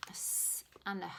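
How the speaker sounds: "a s and a h" whispered, fast; whispered letters. Shown as a demonstration. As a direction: whisper "a s and a h" quickly. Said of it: "we make the sh sound".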